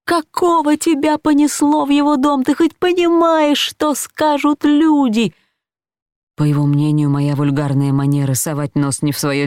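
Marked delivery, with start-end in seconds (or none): 0.1-5.3 higher, heated scolding, slowing on the last words; angry husband. A narrator's reading. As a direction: hurl the reproach at her. (рассерженный муж отчитывает жену)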